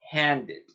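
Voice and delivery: handed with a full extra syllable, hand-ed; handed, the ed sounded out clearly. Shown as a demonstration. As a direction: say handed as two syllables ending in ed. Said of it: "Vamos a ver el ejemplo con et".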